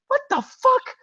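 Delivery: high-pitched, incredulous outburst; baffled disbelief. Acted. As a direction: react as if it makes no sense. Acted baffled reaction to absurd plot.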